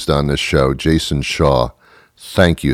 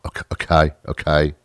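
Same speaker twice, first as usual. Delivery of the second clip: whispered okay; 4 semitones lower, 5 dB quieter than usual. Real, not acted. Backing down after confession.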